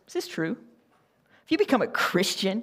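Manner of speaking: retold father, mildly contemptuous; spat out in disgust. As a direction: let the disgust leak into each word. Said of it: "Kind of spits out the word disgust".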